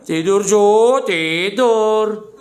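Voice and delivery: loud, high, drawn-out call to sleep; hammed-up bedtime coaxing; mock lullaby. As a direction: tease them as if lulling a grandchild to sleep. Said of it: "Nina Bobo".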